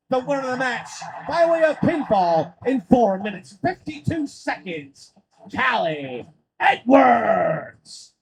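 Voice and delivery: formal winner announcement, name drawn out; measured build to a stretched-out name; ring announcer. Acted. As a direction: announce the victor with a long, slow name.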